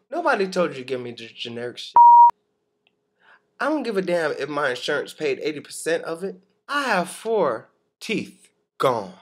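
loud furious rant; angry rant. Real, not acted. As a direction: rant at the dentist. Ranting at the dentist.

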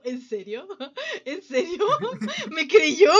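retold disbelief. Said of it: "dije así como".

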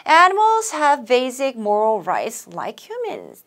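each word slow and clear; slow model reading. Shown as a demonstration. Teacher reading a model sentence to students, slow. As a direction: read it out for the class to repeat. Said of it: "So to begin with 한번 끊어주시고요".

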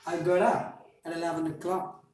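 I got up at eleven o'clock with got up linked as godup; linked flap T. Shown as a demonstration. Teacher modeling a practice sentence. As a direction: link got up at with tapped t sounds. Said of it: "repeat after me".

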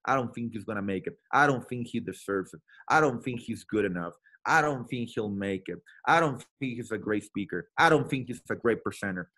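the crowd that says he won't make it; doubting naysayers. Retold or imitated. Doubters' voices, repeated I don't think.

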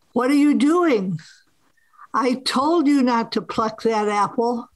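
lightly acted stern God; booming voice of God. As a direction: scold like a displeased God, understated. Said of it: "you hear this booming voice".

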